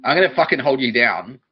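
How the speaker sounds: loud comic threat; triggered rant. Acted. Comedian threatens the picture-book shop people, mock furious. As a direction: belt out a worked-up mock threat. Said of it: "now I'm triggered again".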